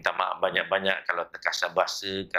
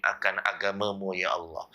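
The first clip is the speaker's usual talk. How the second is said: fervent Malay-Arabic supplication, chanted; closing doa led for the congregation; prayer. Acted. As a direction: plead to God in a steady, rhythmic prayer.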